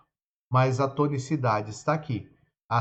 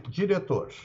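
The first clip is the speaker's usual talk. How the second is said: slow example word; 3 semitones higher, 4 dB quieter than usual. Shown as a demonstration. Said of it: "Diretor, eu separo".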